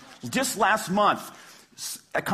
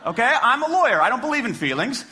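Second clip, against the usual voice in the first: loud, high and emphatic; impassioned; 7 semitones higher, 3 dB louder than usual. Real, not acted. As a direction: argue it with rising passion. Impassioned mock-lawyer rant.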